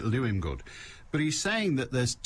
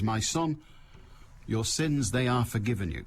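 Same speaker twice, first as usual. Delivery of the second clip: lightly voiced solemn Jesus; a hint of a grave preacher, sentences back to front. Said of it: "'Cause he talked like the, that Jesus".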